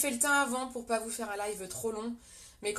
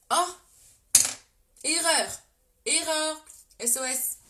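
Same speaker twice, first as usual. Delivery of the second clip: loud, higher shout of alarm; urgent louder shout, sharp fall; alarmed cry; 5 semitones higher, 7 dB louder than usual. Real, not acted. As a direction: call out the mistake like an alarm. Spots a makeup mistake live.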